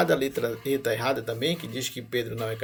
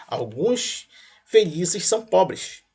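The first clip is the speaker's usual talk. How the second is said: slow whisper of the premise; whispered reading; 3 semitones higher, much slower than usual. Shown as a demonstration. Teacher reads the second premise to students in a slow whisper. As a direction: breathe the sentence out slowly, no voice.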